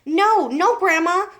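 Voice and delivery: loud, high no no; alarmed cry. A narrator's reading. George crying out to stop Grandma, loud and high. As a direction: cry out and pull the cup away. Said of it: "George cried out".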